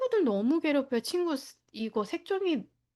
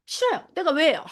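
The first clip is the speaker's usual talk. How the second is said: put-on high bratty kid's no, then louder protest; defiant child refusing; 4 semitones higher, 4 dB louder than usual. Child refusing the teacher, much higher and petulant. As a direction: play the stubborn child who won't.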